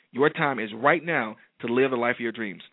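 fervent preacher's proclamation; booming motivational speech. Acted. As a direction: declare it over the crowd.

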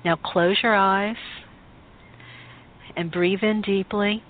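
guided meditation. Acted. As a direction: guide them gently inward, unhurried. Leads a guided Isis meditation.

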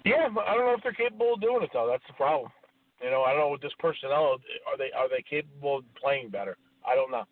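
garbled, breaking-up phone line; talking over a bad connection. Real, not acted. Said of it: "Rich seems to have a really bad connection".

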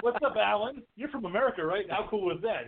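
high, hammed-up New York greeting; New York accent. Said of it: "made fun of, you know, New York accent".

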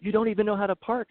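high mock scolding; mild mock rant at a parked truck; imitated angry old man. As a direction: snap like a cranky old driver. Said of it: "he's cussing".

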